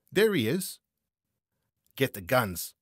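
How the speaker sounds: loud, high cry of alarm; urgent shout. A narrator's reading. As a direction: shout the alarm to your partner. Spotting the runaway, calling out.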